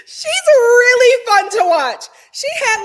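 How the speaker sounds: high loud laugh-soaked words. Real, not acted. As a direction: say it through a big laugh. Laughing hard while talking.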